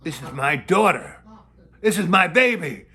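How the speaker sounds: a hint of an enraged father; mock threat. Cop father threatening the nun, building loud. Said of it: "He goes".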